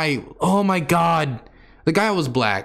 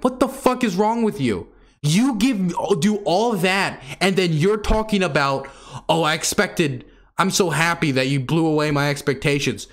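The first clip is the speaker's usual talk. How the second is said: exasperated outburst; 3 semitones higher than usual. Retold or imitated. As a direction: vent disbelief at the guy, rising up. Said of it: "And I'm like".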